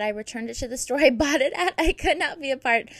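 amused, breaking into a laugh mid-sentence; laughing while reading. Real, not acted. Laughing while reading harsh review.

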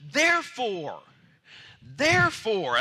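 loud, drawn-out therefore; loud preaching shout. Real, not acted. Preacher leading the congregation, loudly shouting therefore. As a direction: drive the word home. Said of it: "that's what we need to say".

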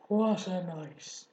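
slow, hoarse rat voice. A narrator's reading. Rat repeating himself to friends, slow and hoarse. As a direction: drag it out, rough and spent. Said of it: "he repeated hoarsely".

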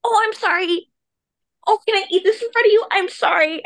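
high, fast fake-polite apology; lightly mocking an overly sorry meat eater; mock apologetic meat eater. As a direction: ham up the fussy apology. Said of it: "people are like".

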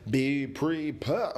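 "Be prepared" said slowly, rising at the end; slow, drawn out. Shown as a demonstration. Podcaster repeats the advice slowly for emphasis.

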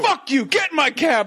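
high, mock-angry cab driver; imitated cabbie yell. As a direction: bark it as a parody of a pushy cabbie. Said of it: "that guy's yelling at everyone".

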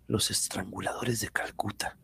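whispering. Acted. Recalling secret sect.

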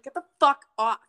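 retold yell at streaker. Retelling the singer's line to the streaker, a mock yell. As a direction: bark it like you're chasing someone off. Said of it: "she's like".

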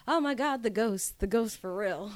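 high, loud mock amazement at spotting someone; excited greeting. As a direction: re-enact an over-the-top excited hello. Acting out his excited greeting.

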